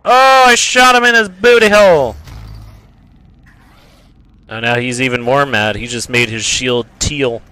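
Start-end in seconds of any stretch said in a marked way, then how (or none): 0.0-2.1 high, loud imitation of an angry demon; mock yelling. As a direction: yell it like the outraged enemy. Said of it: "Look how he's yelling at me".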